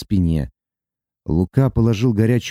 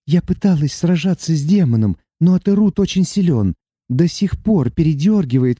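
put-on higher young woman's voice, tearful and earnest; young heroine; 6 semitones higher than usual. Sati confessing her love to Luka, tearful and earnest. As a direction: pour out love through tears. Sati's held voice.

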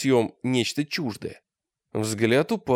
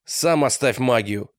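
angry. Acted. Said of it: "ответил Олег зло".

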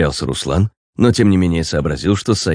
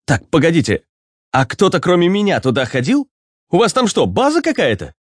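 put-on higher, puzzled young man; a confused young hero asking; 12 semitones higher than usual. Ruslan voiced by narrator.

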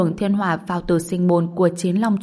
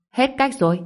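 higher disbelieving repeat; incredulous echo; 7 semitones higher, faster than usual. A narrator's reading. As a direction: toss the words back in disbelief. Mục Vĩ throws the words back.

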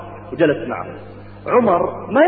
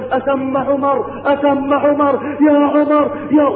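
shouting name; 10 semitones higher, slower than usual. Retold or imitated. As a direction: call out urgently through the door. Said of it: "ويصيح". (نداء بصوت عالٍ مرتفع)

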